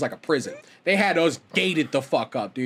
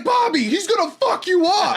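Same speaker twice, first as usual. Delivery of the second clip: high, slow laughing shout; retold warning shout; 13 semitones higher, 4 dB louder than usual. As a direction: warn him loudly through laughter.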